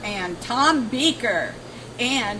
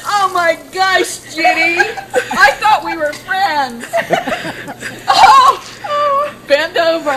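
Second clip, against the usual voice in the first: laughing shrieks, louder and higher; in ice cold water; 6 semitones higher, 8 dB louder than usual. Real, not acted. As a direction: yelp and laugh through the cold shock. Ice water poured over head.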